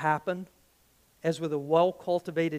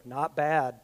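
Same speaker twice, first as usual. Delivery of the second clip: understated; 3 semitones lower than usual. Retold or imitated. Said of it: "And you go".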